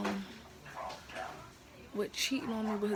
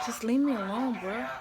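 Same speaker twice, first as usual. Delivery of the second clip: fed-up shout; 2 semitones higher, 6 dB louder than usual. Retold or imitated. Confronting cheating boyfriend.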